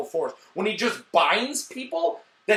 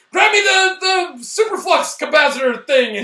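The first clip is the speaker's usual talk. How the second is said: mock ship mechanic; 11 semitones higher, 7 dB louder than usual. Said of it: "when they're like".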